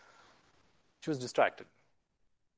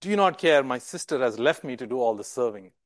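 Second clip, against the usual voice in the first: exasperated outburst; 4 semitones lower than usual. Retold or imitated. Martha at her limit, crying out to Jesus. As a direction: blurt out the complaint at last. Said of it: "finally she's like".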